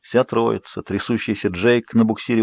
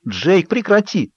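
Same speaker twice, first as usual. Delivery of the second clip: higher, slow, desperate "Джейк, прекрати"; pleading cry; 9 semitones higher, slower than usual. Acted. Bella begs Jacob to stop shaking her. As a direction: beg him to stop.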